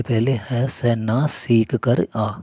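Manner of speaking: slowly, spelling out सीख कर आ; slow mnemonic line. Shown as a demonstration. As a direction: drag the phrase out so it sticks. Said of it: "ऐसे याद करना है". (धीरे-धीरे, याद कराते हुए)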